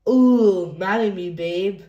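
hammed-up proposal. Reader voicing kids acting out the parents' romance, hammed-up swoon. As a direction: ham up the romance.

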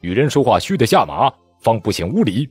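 icy, rising command; cold command. Acted. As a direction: dress him down like a subordinate. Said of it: "冷冷的道".

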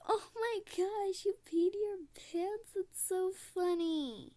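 loud, high teasing; mocking taunt. Classmate taunts the girl who peed, loud and high. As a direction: jeer at her, loud and high.

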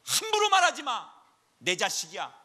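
enraged protective father shouting; God silencing Satan. Acted. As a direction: bark him into silence. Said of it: "하나님이 먼저 막으시는 거죠".

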